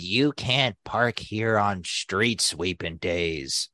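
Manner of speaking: slow, drawn-out scolding imitation; slow mocking scold; mock nagging neighbor. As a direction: mimic the nagging neighbor slowly.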